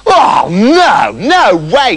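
drawn-out bratty "no"; defiant refusal. Acted. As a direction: refuse like a spoilt princess. Princess refuses to marry.

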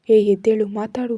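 loud, rough command to wake up; harsh shout. Acted. Ram shouting at unconscious Kala, harsh yell. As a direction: bark it at her to get up.

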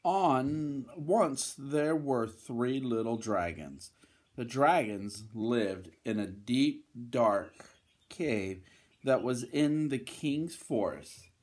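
lively, emphatic bedtime-story reading; storybook voice with punched key words; children's story narration. Acted. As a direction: read to little ones with big swings in tune.

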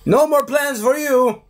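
high put-on gloating voice; hammed-up victory line; mock hero's taunt.

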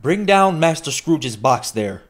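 stern schoolmaster calling for the trunk, slow and loud; terrible voice. A narrator's reading. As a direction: bellow the order down the hall. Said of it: "A terrible voice in the hall cried".

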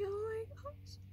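high gasping oh my gosh; surprised squeal. Real, not acted. Sees a pregnant squirrel outside.

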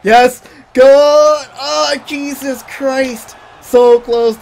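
high, loud overtime yelling; excited shouting. Real, not acted. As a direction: scream at the near miss.

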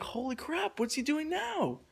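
high, slightly held-back mock alarm; retold alarm. Storyteller watching stranger reach into backpack, retold high alarm. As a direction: raise the pitch, slowing into the question.

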